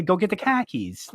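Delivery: New England "khakis" for car keys; New England accent. Shown as a demonstration. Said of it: "Say, say car keys".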